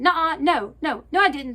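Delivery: loud, high, tearful protest; a crying kid's loud no; upset yell. Retold or imitated. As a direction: cry out the denial like a hurt kid. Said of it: "little Dougie starts yelling".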